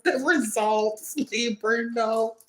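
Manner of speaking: over-the-top jealous rival near tears; mock anguished whining. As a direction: beg for it to stop, fake-tearful. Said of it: "Anyway, back in character".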